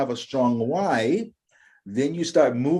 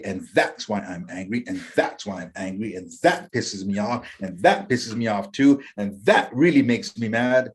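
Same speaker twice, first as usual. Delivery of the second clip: low, muttered grumbling, a hint of anger; mock grumbling; 5 semitones lower than usual. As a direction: grumble it low like someone stewing in resentment. Voicing an angry person's thoughts.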